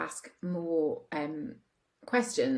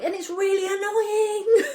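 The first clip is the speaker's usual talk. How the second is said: mock annoyed; 7 dB louder, slower than usual. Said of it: "he's like".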